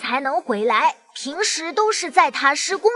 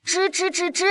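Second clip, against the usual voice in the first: small, softer mouse squeaks; mouse squeaking; 5 dB quieter than usual. Acted. Child showing uncle how a mouse laughs, squeaky mouse imitation. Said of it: "你知道老鼠是怎么笑的吗".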